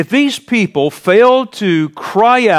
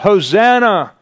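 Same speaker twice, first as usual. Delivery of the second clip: higher, louder joyful acclamation; ringing festive Hosanna shouts; crying out hosanna; 6 semitones higher, 4 dB louder than usual. Retold or imitated. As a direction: call it out like children cheering the king. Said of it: "cry out".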